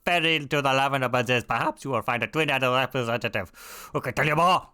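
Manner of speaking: put-on hammy German accent, bursting out at the start. Quest giver directing the adventurer onward, suddenly in a German accent. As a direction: slip into a mock German accent. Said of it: "Suddenly I become German!".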